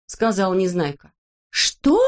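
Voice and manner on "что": high indignant Что; outraged cry; shocked shout. A narrator's reading. The friends shout at Neznaika, high. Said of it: "закричали тут все".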